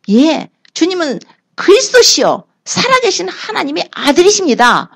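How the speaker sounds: high, eager declaration of faith; fervent confession. Acted. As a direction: proclaim it with shining conviction. Peter's fervent confession to Jesus.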